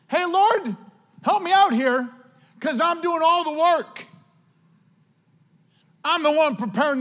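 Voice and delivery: high complaining Martha; whiny Martha. Retold or imitated. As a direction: whine to Jesus about the work.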